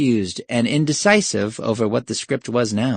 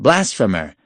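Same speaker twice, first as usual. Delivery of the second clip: embarrassed, heartless battle cry at usual volume; half-hearted cry. Acted. Thugs losing heart as the professor stands still, half-hearted. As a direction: cry it without conviction. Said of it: "grew half-hearted and almost embarrassed".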